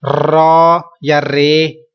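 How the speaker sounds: रॉ या रे said slowly as mistakes; the wrong readings people use. Shown as a demonstration. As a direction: drag रॉ या रे slowly. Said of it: "रे भी गलत है".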